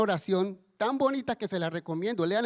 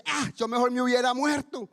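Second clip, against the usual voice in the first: mock exasperated outburst, higher pitched; angry Jonah; 4 semitones higher, 3 dB louder than usual. Jonah to God after losing his plant, mock angry. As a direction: play up a fed-up groaning complaint. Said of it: "se enoja ese man y dice".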